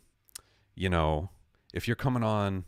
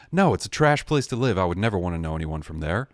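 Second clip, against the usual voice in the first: mock disdain; 5 dB louder than usual. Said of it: "Just joking".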